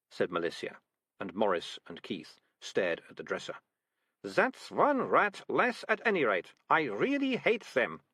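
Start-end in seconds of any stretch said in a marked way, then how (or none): 4.2-8.0 put-on slow, higher satisfied girl; girl pleased the rat is caught; Malicia's voice. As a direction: savour it slowly.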